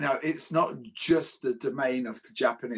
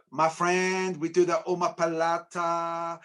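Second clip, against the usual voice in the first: mock Brazilian accent; 4 semitones higher, slower than usual. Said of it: "speak with a Brazilian Portuguese accent".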